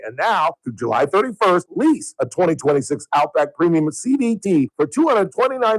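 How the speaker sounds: lively commercial announcer read; radio ad read. Acted. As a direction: sell it like a local radio spot. Reads a car dealer ad.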